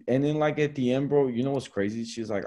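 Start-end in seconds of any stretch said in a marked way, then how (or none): none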